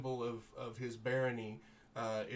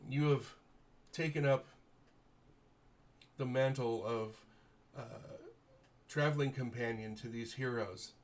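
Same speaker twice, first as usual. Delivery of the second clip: lightly voiced noble lord, grateful and formal; gracious baron. Baron thanking the heroes for rescuing his daughter, lightly voiced noble. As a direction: thank them with stately warmth.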